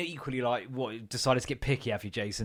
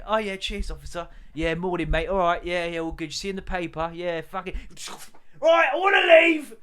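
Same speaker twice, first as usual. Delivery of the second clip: casual hostage taker; 5 semitones higher, 7 dB louder than usual. Retold or imitated. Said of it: "and go".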